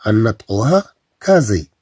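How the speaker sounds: كازي with a buzzing z; كازي said with z not s; z pronunciation. Shown as a demonstration. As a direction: say كازي with a voiced z sound. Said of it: "إلا ما زدناش اس أخرى".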